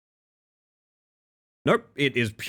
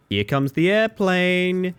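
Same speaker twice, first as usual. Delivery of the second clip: high, slow airplane-spoon voice; baby talk; 5 semitones higher, much slower than usual. Pretend. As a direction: coo it like feeding a toddler. Feeding a baby in game.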